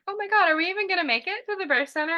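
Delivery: high and fast, rising alarm; racing to the birth center, suddenly panicked; panicky. Retold or imitated. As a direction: blurt it out in a rush of panic. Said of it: "So I really got like".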